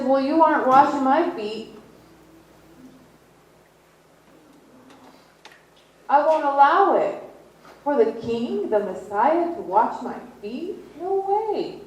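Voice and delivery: high, loud, pleading refusal; aghast Peter. Retold or imitated. Peter refusing to let the king wash his feet, high and loud. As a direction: refuse in shocked disbelief, voice climbing.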